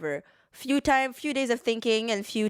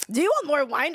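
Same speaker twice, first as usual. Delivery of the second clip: dry; 8 semitones higher, 3 dB louder than usual. Real, not acted. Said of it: "That sounded so dry".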